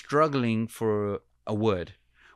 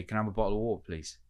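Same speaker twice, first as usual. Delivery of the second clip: British accent; 4 dB quieter, much faster than usual. Shown as a demonstration. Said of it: "So if I went up to you, say".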